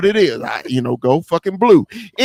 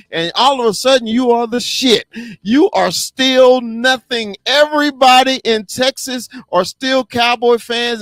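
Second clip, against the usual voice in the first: heated rant; 5 semitones higher than usual. Real, not acted. Host ranting against Texans hype, heated and climbing. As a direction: get worked up about the Texans hype. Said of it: "I got a little emotional about that".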